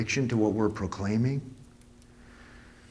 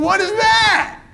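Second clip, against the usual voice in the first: baffled viewer; 9 dB louder, slower than usual. Retold or imitated. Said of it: "and you're going".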